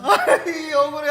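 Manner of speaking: high, laughing mock complaint; mock aggrieved wail. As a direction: whine playfully about unfairness. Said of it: "혼자 기도하면서".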